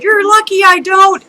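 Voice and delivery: mock-threat, high and forceful; retold angry warning. Retold confrontation after window incident.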